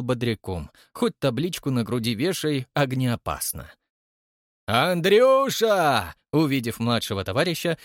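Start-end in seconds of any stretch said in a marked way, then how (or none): 4.7-6.1 loud, drawn-out joyful roar; roaring greeting. A narrator's reading. Old man roaring a greeting to his friend, loud and drawn out. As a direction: bellow his name across the hall. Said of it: "взревел Егор Кузьмич".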